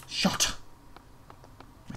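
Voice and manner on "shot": "Shot" alone with a released final t; crisp "Shot", no k before the t; careful "shot". Shown as a demonstration. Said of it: "not one shocked him".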